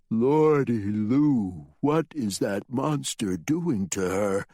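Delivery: slow dismayed drawl; horrified at the monster; Tom, aghast. Acted. Tom horrified at the monster, slow drawl.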